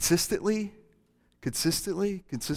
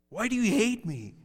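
put-on whiny child; 6 semitones higher, 4 dB quieter than usual. Pastor playing a kid demanding juice, whiny. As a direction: whine like a kid denied juice.

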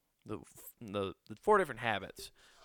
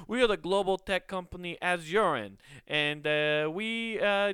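higher, louder ad-pitch voice; mock corporate spokesperson; 7 semitones higher, 4 dB louder than usual. Tech company pitching itself to the world, mock promo voice. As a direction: sell it like a cheesy tech promo.

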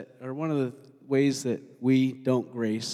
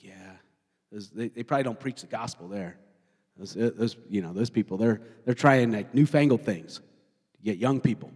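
low, grudging grumble; grumbling; 5 semitones lower than usual. Acted. Younger pastor passing big churches, low judgmental grumble. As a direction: grumble disapprovingly under your breath, low. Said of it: "Have you ever grumbled against another church?".

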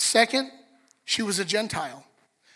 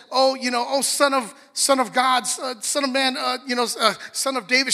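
fumbling stranger; 5 semitones higher, 4 dB louder than usual. Retold or imitated. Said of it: "She's saying all these things".

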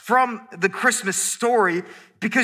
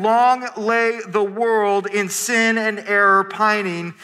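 recited hymn line; slower than usual. Shown as a demonstration. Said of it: "in the song we just sang".

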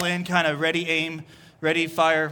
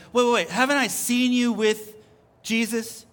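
higher-pitched, suspicious challenge; acted child's questioning; 4 semitones higher than usual. Another child challenging Peter, high and insistent. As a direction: break in with a raised, questioning voice. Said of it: "another child says".

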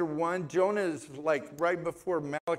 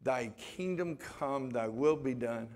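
prayer recitation; 2 semitones lower than usual. Acted.

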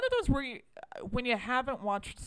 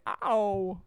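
louder yelp of a freshly bitten werewolf; Christopher Walken; 5 dB louder than usual. Acted. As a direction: yelp it as a bad celebrity impression. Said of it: "It was just like".

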